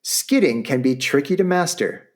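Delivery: upbeat sales-pitch read; infomercial voice. Acted. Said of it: "I'm starting to sound like an infomercial".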